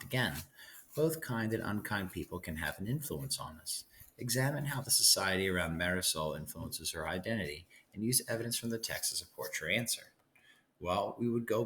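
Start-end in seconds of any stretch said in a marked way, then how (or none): 0.9-10.1 reading the writing prompt out clearly. Shown as a demonstration. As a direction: read it like the assignment on the board. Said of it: "reads the prompt aloud".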